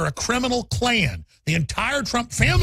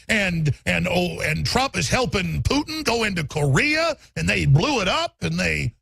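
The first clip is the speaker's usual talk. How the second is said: mocking the congresswoman; 2 semitones higher than usual. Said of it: "she's like".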